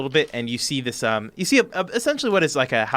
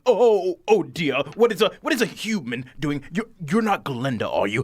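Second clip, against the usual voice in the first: flustered halfling; 4 semitones higher, 5 dB louder than usual. Acted. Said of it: "it goes".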